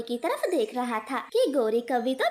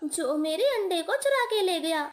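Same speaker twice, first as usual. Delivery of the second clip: higher, near-tearful cry over the stolen egg; distraught mother kite; 5 semitones higher than usual. Acted. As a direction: panic as the nest turns up empty. Mother finds egg missing. (अंडा गायब देख घबराई माँ चील)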